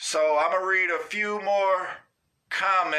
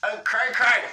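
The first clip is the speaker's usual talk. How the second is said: excited; 6 semitones higher, 4 dB louder than usual. Real, not acted. Repeating loudly.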